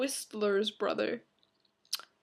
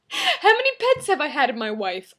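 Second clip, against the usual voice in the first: high, loud, giggly delivery; amused mock question; 5 semitones higher, 7 dB louder than usual. Vlogger replaying a misread question, loud and amused. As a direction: repeat the blunder loudly through amusement. Laughs at own misreading, plays along.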